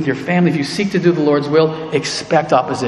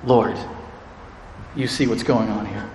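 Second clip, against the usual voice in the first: quiet prayer; 7 semitones lower, 10 dB quieter than usual. Retold or imitated. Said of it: "He interjects with prayer".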